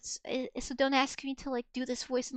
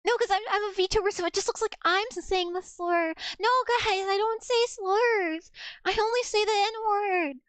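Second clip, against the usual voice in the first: joking protest; 5 semitones higher than usual. Real, not acted. Joking defence to chat.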